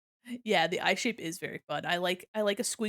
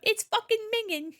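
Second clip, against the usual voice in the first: loud, high mock British exclamation; bad UK accent; 12 semitones higher, 5 dB louder than usual. Streamer imitating a video, loud bad British accent. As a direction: blurt it out in a hammed-up UK accent. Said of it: "horrible accent".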